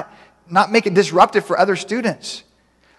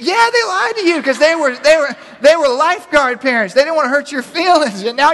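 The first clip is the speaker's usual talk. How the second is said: blunt judge; 9 semitones higher, 3 dB louder than usual. Retold or imitated. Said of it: "He goes".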